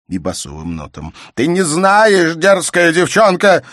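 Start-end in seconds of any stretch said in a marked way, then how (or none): 1.3-3.6 slow, loud, high-pitched rage at her; furious shout. A narrator's reading. Father shouts at his insolent daughter furiously. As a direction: hurl the insult at her.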